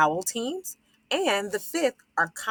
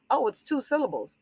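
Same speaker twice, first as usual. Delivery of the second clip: confused scholar; 7 semitones higher than usual. Pretend.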